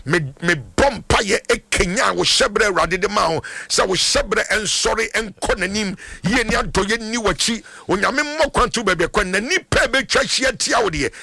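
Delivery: insistent blessing in driving phrases; fervent prayer. Real, not acted. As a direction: pray a blessing over the caller with conviction. Prays for a caller on air.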